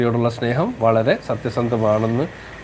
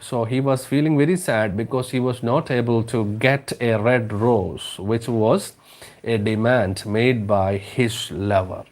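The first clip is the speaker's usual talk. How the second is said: slow, careful read-aloud for the class; slow story reading; much slower than usual. Acted. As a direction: read each word out slowly to students. Slow English explanation. (പതുക്കെ കഥ വായിക്കുന്നു)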